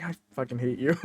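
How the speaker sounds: quiet laughing I fucking hate you; laughing mock hate. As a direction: say it fondly through laughter. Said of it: "I'm like".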